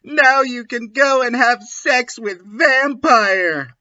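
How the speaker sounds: hammed-up teen shout; mock angry shout. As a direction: snap back like a sulking teen. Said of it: "I shouted".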